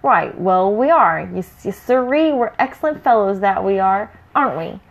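fake-friendly brutish troll; sly troll voice. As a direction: lay it on thick like a sly troll.

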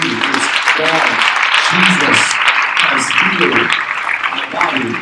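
loud shouted testimony in short bursts; retold screaming. Preacher acts out woman healed of tumor, screaming.

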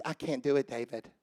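very low, soft and spent; acted exhaustion. Tired soldier telling David he is done, acted exhaustion. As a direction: let the last word drop away to almost nothing. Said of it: "I imagine they talk like this".

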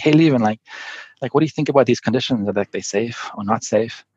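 casual, breezy question, pitched a little up; lighthearted. Retold or imitated. Rower sounding out the skipper in a storm, lighthearted. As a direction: ask it lightly, as if it hardly matters. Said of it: "very kind of lightheartedly".

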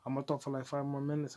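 lightly put-on Latino accent; bad Latino accent. Podcaster mocking up Miles Morales talk, bad Latino accent. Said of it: "in my bad accent".

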